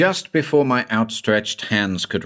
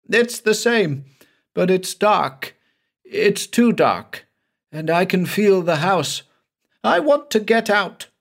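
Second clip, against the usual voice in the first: high, tense voice of a terrified man; a haunted man begging to get out, voice pitched high; frightened Banks; 10 semitones higher than usual. A narrator's reading. Scared man lost in a phantom house, high and pleading.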